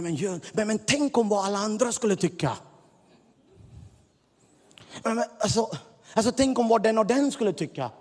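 building from hesitant to fast, high fretting; anxious inner voice. Retold or imitated. Preacher voicing the doubting voices within, hesitant then fretting fast and high. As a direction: let the doubting voice spiral up. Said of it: "röster inom dig som vill tysta ner dig".

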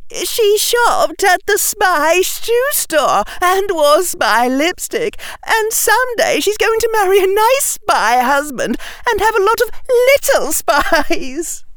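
high, slow, teasing; giggly mocking girl voice. A narrator's reading. Daphne making fun of the spies, slow teasing girl voice. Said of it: "said Daphne".

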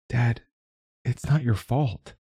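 high, slow daughter voice; reassuring daughter. A narrator's reading. Daughter reassures her apologising father.

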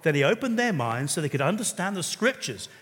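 normal talking voice

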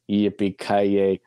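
low, slow movie-hero delivery; put-on action-film accent; action-hero catchphrase accent. Shown as a demonstration. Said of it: "In that accent".

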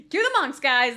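loud laughing. Real, not acted. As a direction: laugh while calling it out. Laughing while repeating.

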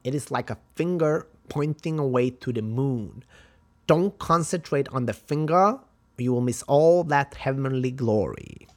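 hint of a martial arts master imitation; lightly imitated kung fu teacher, firm and emphatic; Bruce Lee. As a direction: teach it like a film sensei, accent put on. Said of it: "I'm trying to imitate Bruce Lee".

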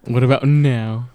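slow, drawn-out mock repeat; mocking echo. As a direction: echo the texter's line to ridicule it, slowly. Friend mocks the returning texter.

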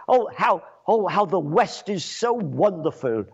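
sneering praise of the West; sarcastic. Real, not acted. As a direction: gush with obvious sarcasm.

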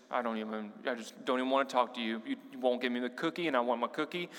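put-on pouting child. Pastor imitating his childhood self pouting, mildly sulky. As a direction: mutter it like a kid in a sulk. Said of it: "is pouting".

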